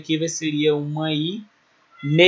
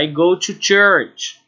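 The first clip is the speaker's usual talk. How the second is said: slow model phrase; 3 dB louder, slower than usual. Shown as a demonstration. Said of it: "ou seja".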